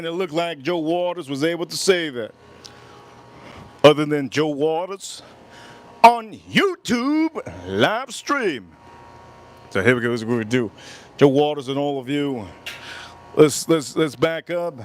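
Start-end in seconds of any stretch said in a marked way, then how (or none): 6.0-8.7 slow drawn-out. Acted. Drawn-out emphasis.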